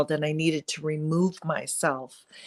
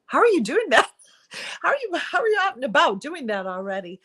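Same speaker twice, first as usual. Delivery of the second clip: incredulous amazement; 9 semitones higher, faster than usual. Retold or imitated. Amazed at friend's perfect look.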